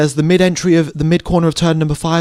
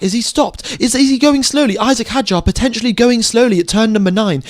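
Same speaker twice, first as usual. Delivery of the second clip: excited commentary; 4 semitones higher than usual. Real, not acted. Commentator calling a smoking car to viewers, excited and urgent. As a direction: call the breakdown as it unfolds, alarmed. Car failing live on track.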